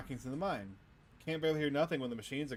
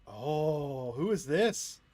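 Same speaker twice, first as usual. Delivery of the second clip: sudden loud startled question; 6 dB louder, much slower than usual. Acted. Startled player character.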